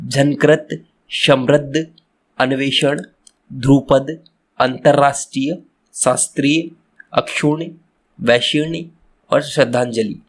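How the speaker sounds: each word spoken clearly and separately, e.g. झनकृत, समृद्ध, अन्वेषण; like a teacher leading repeat-after-me; careful pronunciation. Shown as a demonstration. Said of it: "मेरे साथ आप उच्चारण कीजिए शुद्ध". (हर शब्द का साफ़ और शुद्ध उच्चारण)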